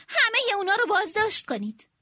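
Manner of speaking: shout. Acted. Queen shouting the arrest order to her secretary. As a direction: bellow the order. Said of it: "فریاد زد".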